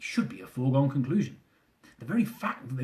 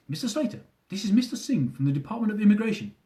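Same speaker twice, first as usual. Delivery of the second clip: put-on thick Indian accent; 7 semitones higher than usual. Officer urging the husband to stay on, Indian accent. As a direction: urge him not to hang up, Indian accent. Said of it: "with a thick Indian accent".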